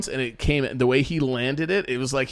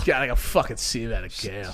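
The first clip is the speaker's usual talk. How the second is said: Boston accent impression; 5 semitones lower than usual. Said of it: "Sound like Sean Connery".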